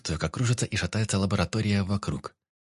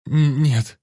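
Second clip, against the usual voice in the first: frightened stammer; 6 semitones higher, 9 dB louder than usual. A narrator's reading. Frightened captive refuses.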